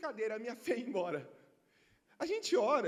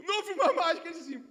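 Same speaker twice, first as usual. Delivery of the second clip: ordinary delivery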